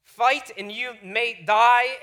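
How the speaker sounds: badly faked Scottish accent, slow and loud; drawn-out, unconvincing Scottish accent; terrible Scottish accent. Shown as a demonstration. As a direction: attempt a grand Scottish war cry, clumsily. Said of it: "I tried practicing the Scottish accent".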